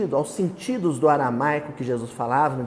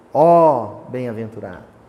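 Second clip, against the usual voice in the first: louder declaimed "Ó", then falling; exclamation; 5 semitones lower, 6 dB louder than usual. Shown as a demonstration. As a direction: exclaim it as in a poem. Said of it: "ele exclama". (exclamação declamada, "Ó" mais forte)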